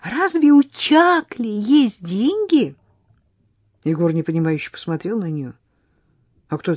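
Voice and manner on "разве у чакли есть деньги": put-on laughing girl. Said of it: "Залилась девочка звонким смехом".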